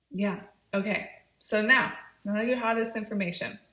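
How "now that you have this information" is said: talking with gum in mouth; words around a wad of gum; chewing gum. Real, not acted. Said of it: "I'm doing a YouTube video with gum in my mouth".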